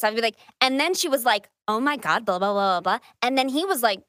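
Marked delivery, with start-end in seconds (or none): 0.6-3.0 acted-out gossip. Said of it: "do a voice".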